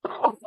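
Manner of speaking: a sudden sneeze; sneezing. Real, not acted. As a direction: sneeze mid-sentence. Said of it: "sorry, I'm gonna sneeze".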